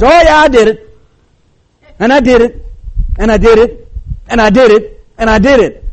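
high, loud, punchy repeated admission; glib confession. Acted. Sinner confessing without forsaking, mock-eager admission. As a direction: rattle off each admission high and hard.

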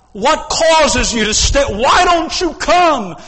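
impassioned altar call; pleading call. Acted. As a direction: call them forward. Preacher pleads with congregation.

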